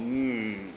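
low, drawn-out grumbling hum; grudging "hmm"; reluctant groan. A narrator's reading. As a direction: groan as if giving in. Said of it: "finally he groaned".

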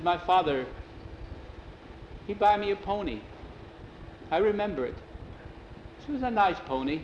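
broken English, lightly voiced, searching back in memory; wistful Jose, reminiscing. Jose recalls the pony his father bought, wistful.

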